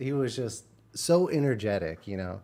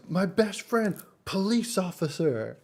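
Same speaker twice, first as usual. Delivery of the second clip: imitating the cook; 8 semitones higher than usual. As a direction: stretch it out high like the enthusiastic cook. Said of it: "he goes".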